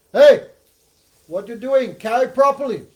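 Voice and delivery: loud, high royal telling-off; high-pitched imperious outburst, acted out; scolding shout. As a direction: shout an indignant order at the servant. King scolds careless palanquin carrier.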